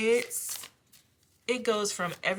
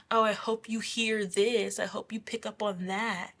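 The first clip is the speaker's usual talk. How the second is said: mildly raised mock taunt; 3 semitones higher than usual. Bullies sending negative thoughts on purpose, lightly taunting. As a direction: imitate someone needling on purpose. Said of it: "send you negative thoughts on purpose".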